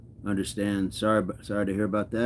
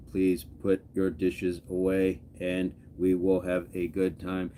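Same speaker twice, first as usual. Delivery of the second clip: slow, even robot voice; 3 semitones lower, 4 dB quieter than usual. Shown as a demonstration. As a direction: talk like a robot. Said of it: "start talking like a robot".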